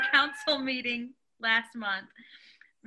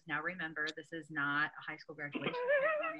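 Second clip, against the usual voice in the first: mock stern officiant; 6 semitones lower, 10 dB quieter than usual. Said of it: "then the microphone came out".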